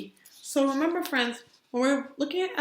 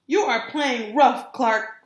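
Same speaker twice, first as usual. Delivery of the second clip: loud complaining call; cried out; 4 dB louder, slower than usual. Acted. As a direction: kids crying out in protest. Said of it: "cried the other kids".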